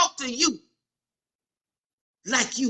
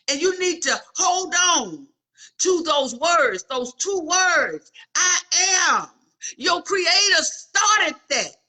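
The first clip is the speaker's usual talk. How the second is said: raised, slow, drawn-out preaching; preaching at full force; 5 semitones higher, 3 dB louder, slower than usual. Real, not acted. Preacher to congregation, slow and rising. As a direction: lift the church with each phrase.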